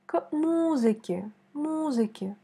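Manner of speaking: музыке with the first syllable leaned on; stress on the U. Shown as a demonstration. Teacher marking the stressed vowel, careful stress. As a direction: hit the MU of музыке. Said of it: "C'est la voyelle O qui est accentuée".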